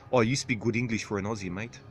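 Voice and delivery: lightly put-on South African accent; attempted South African accent. Second try at the accent, tentative South African. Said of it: "So what's South African?".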